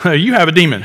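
laughing mockery. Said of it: "the crowd answered him".

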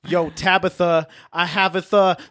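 lightly voiced rapper forcing rhymes. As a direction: drop clumsy rhymes like a rapper. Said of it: "I imagine if he talks, he's like".

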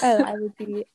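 hushed whisper. Real, not acted. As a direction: drop to a whisper. Joking whisper about dying.

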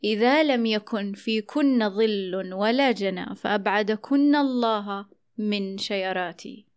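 slow verse recitation, شيراتي with y for j; recited dialect verse. Shown as a demonstration. Host recites Umm al-Haytham's line, dialect verse. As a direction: recite slowly, glide on y in شيراتي. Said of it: "كانت تنشد بيت".

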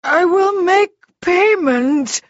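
high, loud frantic pleading; panicked wail, drawn out; Froggy. A narrator's reading. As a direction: bargain desperately for your life. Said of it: "Froggy gabbled".

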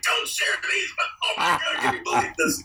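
high excited squeal. Retold or imitated. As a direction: gush with excitement.

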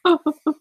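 high, short mock sobs; boo-hoo like storybook characters; hammed-up crying noises. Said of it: "Dorothy started to cry".

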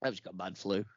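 low, soft sick voice; holding breath. Pretend. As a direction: play up the man flu. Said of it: "I'm holding my breath a bit".

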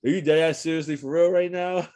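high, hammed-up disbelief; incredulous question. Pulled-over biker challenging police, high-pitched incredulity. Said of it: "Like, mad times in different ways".

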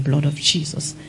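urgent whispered prayer under the breath. Retold or imitated. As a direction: pray it in a frightened whisper. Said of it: "They started praying".

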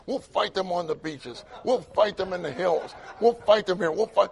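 a hint of a defiant orator building up; Winston Churchill. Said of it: "It was like Winston Churchill".

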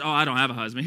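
offhand everyday reply; low-key conversational paraphrase; modern casual vernacular. Acted. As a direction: say it casually, without scripture formality. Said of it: "in our modern day vernacular".

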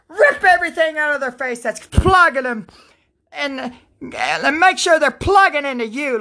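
fervent prayer. Real, not acted. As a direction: pour it out to God, pleading.

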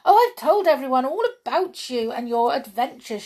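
high, fast breathless excitement; bursting with news; high fast excited rush; excited cry. A narrator's reading. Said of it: "she cried".

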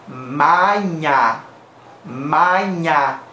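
maña with open, oral A sounds; Spanish pronunciation. Shown as a demonstration. Teacher showing the word as if Spanish, open vowels. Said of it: "fuera pronunciada en español, sonaría como".

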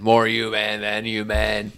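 slow, lightly growled rock singer voice; impression of a rock singer. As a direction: stretch the words like a metal frontman. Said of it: a really good impression of the singer.

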